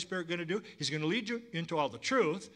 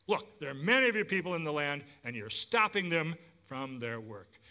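a hint of an impatient king; lightly voiced Pharaoh. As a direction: scold them back to work. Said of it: "Pharaoh replied".

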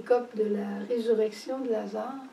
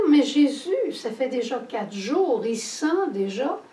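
Martha protesting; 3 semitones higher, 5 dB louder than usual. Retold or imitated. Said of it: "elle va dire".

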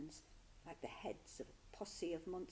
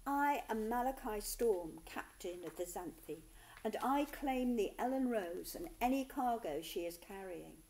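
loud, commanding pirate declaration; ringing pirate captain; 3 semitones higher, 6 dB louder than usual. Acted. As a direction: proclaim it over the noise. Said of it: "The pirate captain's voice rang through the clamour".

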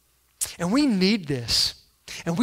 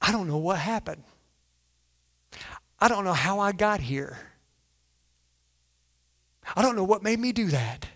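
mock excuse; 7 dB quieter than usual. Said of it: "we say things like this".

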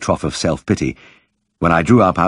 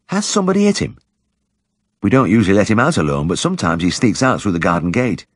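high, gentle village woman; shy woman's voice; 4 semitones higher than usual. Acted. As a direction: lift the voice for the shy wife. Mrs Cundall voiced.

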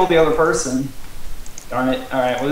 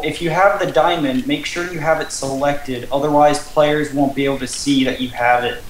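reading rules aloud. Real, not acted. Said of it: "while I read the rules".

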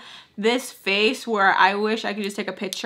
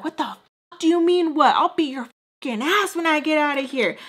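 mock angry mom; 7 semitones higher than usual. Daughter imitating her angry mom threatening her. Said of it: "And she's like".

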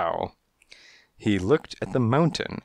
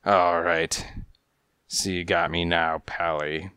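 rasping; 3 semitones lower than usual. Acted. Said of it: "he rasped".

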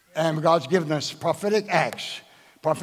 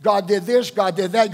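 ordinary talk

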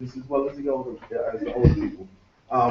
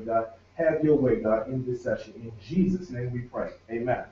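opening prayer. Real, not acted. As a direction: lead the room in prayer.

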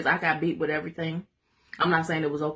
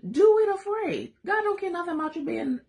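emphatic exhortation; 12 semitones higher than usual. Shown as a demonstration.

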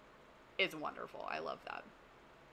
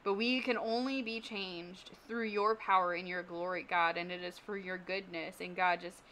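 prayer. Acted. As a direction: pray sincerely over the group. Leads a closing prayer.

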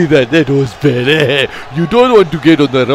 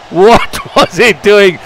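laughing; 3 semitones higher, slower than usual. Real, not acted. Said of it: "Sorry for laughing".

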